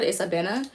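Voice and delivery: Abena said with a clear e in the middle, a-BEH-na; Ghanaian pronunciation. Shown as a demonstration. Correcting the American Abina to the Ghanaian Abena. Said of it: "like how it's supposed to be said".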